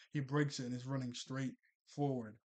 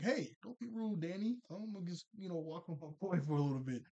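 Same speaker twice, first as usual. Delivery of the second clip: dismissive Jazz; 4 semitones higher than usual. Retold or imitated. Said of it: "And Jazz is like".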